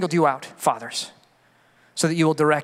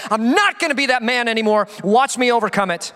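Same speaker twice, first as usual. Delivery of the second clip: higher-pitched, emphatic declaration; defiant resolve; 7 semitones higher, 3 dB louder than usual. Acted. Preacher voices a man refusing to stay defeated, defiant resolve. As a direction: vow it forcefully, punching the first words.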